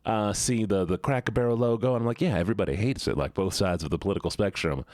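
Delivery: casual storytelling in a Southern voice; lightly played Southern accent; put-on Southern accent. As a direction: chat along with a put-on Southern twang. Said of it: "I'm gonna go back to the Southern voice".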